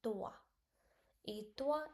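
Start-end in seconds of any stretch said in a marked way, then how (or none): 1.3-1.9 "Etwa" said as "eta", slow and careful; French pronunciation. Shown as a demonstration. Teacher to students, careful French model word. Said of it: "etwa means and".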